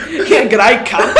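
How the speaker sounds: slow, loud, laughing fake Australian accent; mock Aussie accent. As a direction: play up a cheeky Australian accent. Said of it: "I'm like".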